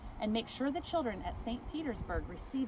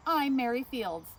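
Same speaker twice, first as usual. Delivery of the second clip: louder, higher, proud; proud declaration; 4 semitones higher, 4 dB louder than usual. Acted. Mary tells the manager her name, proudly and louder. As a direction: announce your name with pride.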